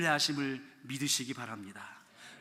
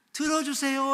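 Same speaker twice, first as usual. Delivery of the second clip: higher, louder call to be heard; loud plea; 9 semitones higher, 7 dB louder than usual. Shown as a demonstration. David crying out to God, loud plea. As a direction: cry out for attention. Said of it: "아까는 큰 소리로".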